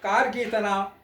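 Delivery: measured stage-poet delivery; lilting satirical verse recital; poem recitation. Acted. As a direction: recite verse line by line with pauses.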